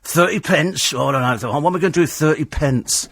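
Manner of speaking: lightly acted grumbling over small change; miserable cabbie. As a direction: imitate a put-out cabbie. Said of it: "being miserable".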